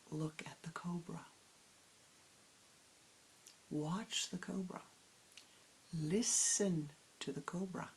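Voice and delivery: a hint of an old grandmother, whispered gently; whispering grandmother. Grandmother instructs the girl.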